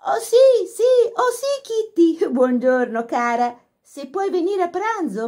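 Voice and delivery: gushing phone chat. A narrator's reading.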